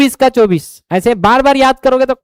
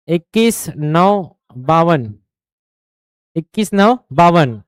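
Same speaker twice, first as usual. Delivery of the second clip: slow rote drill; 3 semitones lower, much slower than usual. Shown as a demonstration. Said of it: "वर्ग भी ऐसे ही रटना है".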